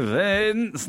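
high, strange crooned name; a weird high voice unlike a famous singer's; bad impression of a famous singer. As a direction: call the name like a failed impression of a famous singer. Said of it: "this weird voice that was not like a famous singer".

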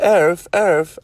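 high, loud dog arf; dog barking Australian. Retold or imitated. Imitating a friend's dog for listeners, badly faked Australian bark. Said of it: "dogs bark with an Australian accent".

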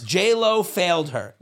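half-joking cry of betrayal; hammed-up outrage; mock outrage. Mock outrage about city childhood.

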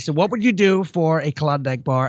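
lightly imitating Trump's pitch; Donald Trump impression. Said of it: "was Trump basically".

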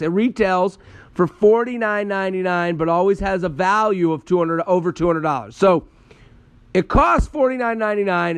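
upbeat, deliberate sponsor read. Acted. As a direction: sell the product to listeners. Reads a sponsor ad.

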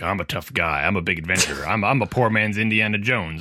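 mock tough adventurer growl; gruff video game guy. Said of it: "like the gruff video game guy voice".

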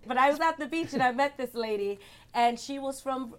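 badly faked British storytelling; put-on British accent. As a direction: tell it in a mock-British accent. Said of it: "Stop doing it".

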